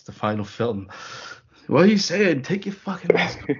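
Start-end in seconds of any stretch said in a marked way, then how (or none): 1.7-3.6 higher, annoyed yell; exasperated shout. Retold or imitated. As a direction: demand he drop the mask. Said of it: "Batman going".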